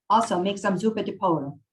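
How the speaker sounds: lightly voiced Italian accent; a touch of put-on Italian; Maria, Italian accent. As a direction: add an order as an old Italian woman. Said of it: "I'm going to butcher an Italian accent".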